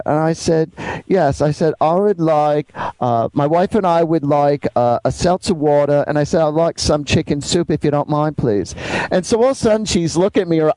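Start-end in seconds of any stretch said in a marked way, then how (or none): 1.1-6.0 lightly put-on British politeness; slight British accent. Man ordering at a diner, slight British accent. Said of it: "talking with a slight British accent". 6.4-8.8 lightly put-on British politeness; slight British accent. Man ordering at a diner, slight British accent. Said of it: "talking with a slight British accent".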